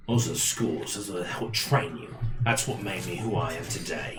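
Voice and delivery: mock their self-pity, unimpressed; lightly voiced contemptuous captor; scornful captor. In-character scornful retort to the prisoner.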